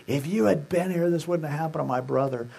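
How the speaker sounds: accusing. Acted. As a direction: say it as a pointed reproach. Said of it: "it wasn't an accusing".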